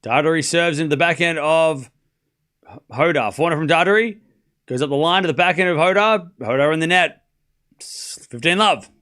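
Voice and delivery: tennis commentary, calling each shot; live play-by-play. Acted. Commentator calling a live tennis point, play-by-play. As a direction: call the point as it unfolds.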